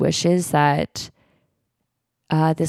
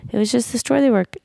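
imitated gentle talk, higher and quicker; mock gentle; 6 semitones higher, faster than usual. Imitating people who are really gentle, mock gentle. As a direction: lightly put on a gentle, higher voice. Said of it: "people are really gentle like that".

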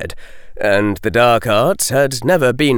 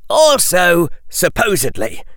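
cold, pointed retort; boy coldly correcting the headmaster; 10 semitones higher, 4 dB louder than usual. A narrator's reading. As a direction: lay it down icily. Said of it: "the boy who lived said coldly".

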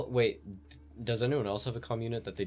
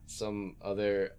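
formal message voice; 3 semitones lower, slower than usual. Acted. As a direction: dictate it slowly like a careful message. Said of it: "I'm gonna say".

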